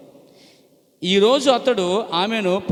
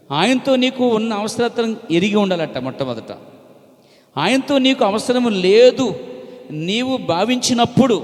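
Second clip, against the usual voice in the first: preaching emphasis; 4 semitones higher, 5 dB louder than usual. Real, not acted. Preacher presses the point.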